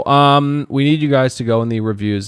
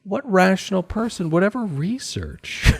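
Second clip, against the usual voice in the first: much higher, disbelieving; incredulous; 10 semitones higher than usual. Acted. Host mocking the idea of researching the show, incredulous. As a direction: scoff at the idea.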